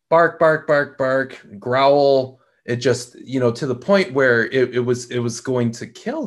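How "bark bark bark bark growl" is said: barking dog. Retold or imitated. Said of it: "let that dog just go at him, just like".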